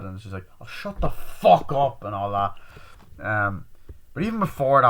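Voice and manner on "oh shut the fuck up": loud, slow, high mock exasperation; exasperated retort. Girl dismissing the tearful apology, loud exasperated retort. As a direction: drag out an acted angry dismissal.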